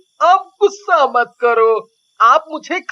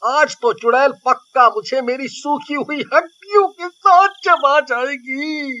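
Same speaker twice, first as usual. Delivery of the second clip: worried dread. Acted. Chilli dreads being eaten.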